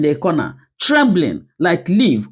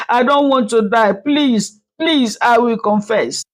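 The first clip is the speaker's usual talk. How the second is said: a frightened maid begging for her life, voice raised; frightened pleading; 4 semitones higher than usual. Acted. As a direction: beg in panic, higher. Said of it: "dropped to her knees instantly".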